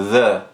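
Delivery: "the" com vogal relaxada, neutra; relaxed th vowel. Shown as a demonstration. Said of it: "a vogal do the é uma vogal relaxada". ("the" com vogal relaxada)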